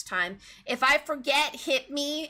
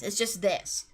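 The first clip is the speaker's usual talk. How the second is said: dead flat monotone; flatline voice; 5 semitones lower than usual. Shown as a demonstration. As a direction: say it with no emotion at all. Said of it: "flatline voice".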